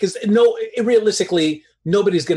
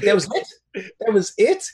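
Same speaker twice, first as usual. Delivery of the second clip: mock disbelief; 4 semitones higher, slower than usual. Acts out disbelief at lame cross-examination.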